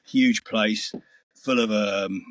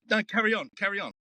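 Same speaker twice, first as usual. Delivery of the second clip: high-pitched imitation of an Aussie; Aussie accent; 10 semitones higher than usual. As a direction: mimic an Australian urging someone on, pitched right up. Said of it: "he's Aussie accent".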